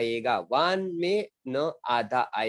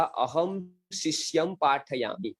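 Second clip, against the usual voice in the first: slow example reading; slower than usual. Shown as a demonstration. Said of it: "Sanskrit example sentence".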